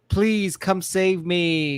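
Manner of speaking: put-on slow, breathy little-girl plea; girly voice. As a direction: play the helpless princess, slow. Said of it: "she put on her girly voice".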